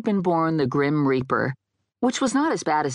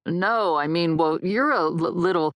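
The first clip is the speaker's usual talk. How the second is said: halting, higher-pitched stumble; stammering backtrack; 3 semitones higher than usual. Acted. Dead guy corrects his blunder to her, stammering. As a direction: fumble for a tactful word, stuttering.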